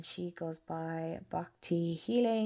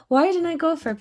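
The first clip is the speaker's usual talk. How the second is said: retold frustrated cry; 10 semitones higher, 11 dB louder, faster than usual.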